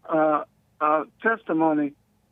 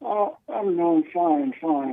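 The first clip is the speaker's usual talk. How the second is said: on speakerphone; slower than usual. Real, not acted. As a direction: voice through a speakerphone. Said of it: "You sound like you're on speakerphone".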